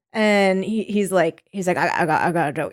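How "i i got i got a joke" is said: stammering Southern old-timer, lightly imitated; lower, halting, a touch of Southern; Southern old man. Old guy announcing his joke to the camera, lightly Southern. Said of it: "they're also very Southern".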